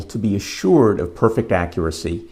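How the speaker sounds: "assured" leaned on with a pitch lift; stress on assured. Real, not acted. Lecturer cautioning students about sampling, stress on "assured". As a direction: put the weight on "assured". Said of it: "emphasize the word assured".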